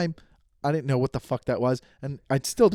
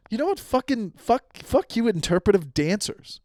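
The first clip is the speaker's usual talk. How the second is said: high-pitched comic exasperation; half-serious indignation, voice pitched way up; mock outrage; 6 semitones higher than usual. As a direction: tell them off in a worked-up comic rant. Mock rant at interpretive dancers.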